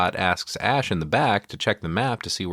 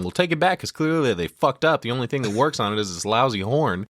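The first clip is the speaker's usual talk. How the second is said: snarky driver voice; 4 semitones higher than usual. Retold or imitated. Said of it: "Scott tells him".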